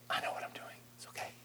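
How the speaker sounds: hushed reassuring whisper. Acted. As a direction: breathe it almost silently. Jacob soothes Joseph.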